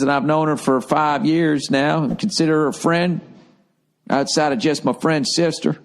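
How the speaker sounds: hammed-up Southern letter-reading voice; silly Southern accent. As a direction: read it in a jokey Southern twang. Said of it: "your attempt at a Southern accent".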